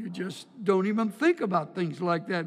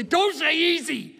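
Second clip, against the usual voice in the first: higher and louder mock protest; 10 semitones higher, 6 dB louder than usual. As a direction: object loudly, pleading. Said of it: "I say".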